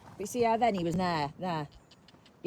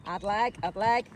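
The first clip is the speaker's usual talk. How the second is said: called-out instruction; 4 semitones higher, 6 dB louder, slower than usual. Real, not acted. Coach calling instruction to rider.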